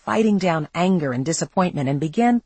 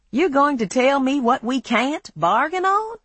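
higher, incredulous question; surprised; 8 semitones higher than usual. A narrator's reading. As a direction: caught off guard, surprised. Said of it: "He sounded more surprised than indignant".

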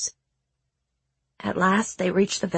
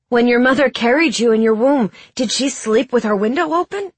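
higher, louder knowing doctor; wise doctor voice; 4 semitones higher, 5 dB louder than usual. A narrator's reading. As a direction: question her like a curious physician.

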